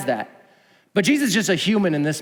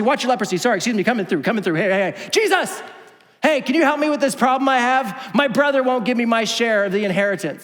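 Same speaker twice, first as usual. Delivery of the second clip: elbow your way through the crowd; pushy man; 5 semitones higher than usual. Retold or imitated. Greedy man shoving to the front.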